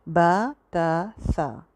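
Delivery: बा ता सा with a short natural aa; normal length alif. Shown as a demonstration. Teacher showing the right alif length. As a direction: keep the alif as short as in everyday Urdu. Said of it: "उतनी ही आपने यहाँ पे भी रखनी है".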